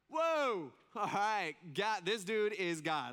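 loud, high-pitched "whoa" amazement; awestruck crowd. Acted. Preacher playing the crowd hearing God, awestruck. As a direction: blurt it out, stunned and thrilled.

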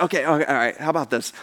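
low, soft, conciliatory; calming down. Acted. Angel seeing they are scared, calming and quiet. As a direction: ease off and gently offer another way.

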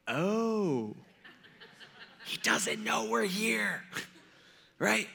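high, soft, drawn-out realization; imitating stifled excitement in hiding; acted hushed glee. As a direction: squeal it under your breath. Hidden men realize they are unseen.

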